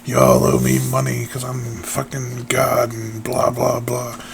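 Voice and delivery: a lightly put-on haughty deity demanding his money; mock arrogant god. Host mocks a greedy self-styled god, in a lightly put-on haughty voice. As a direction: play a smug god scolding peasants, half-joking. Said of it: "I can't, uh, do the accent".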